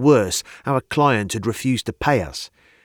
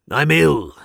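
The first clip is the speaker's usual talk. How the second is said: whiny, higher and louder complaint; complaining; 6 semitones higher, 6 dB louder than usual. A narrator's reading. Governor sulking to Barnett, whiny complaint. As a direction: moan it like a sulking patient. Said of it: "he complained".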